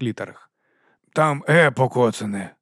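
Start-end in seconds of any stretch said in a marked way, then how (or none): 1.1-2.5 calling out. Acted. Captain calls up to man on a ladder, moderate shout. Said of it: "крикнув Ваймс".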